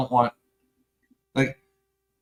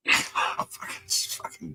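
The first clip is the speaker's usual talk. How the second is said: laughing; 7 dB quieter, slower than usual. Real, not acted. Laughing aside.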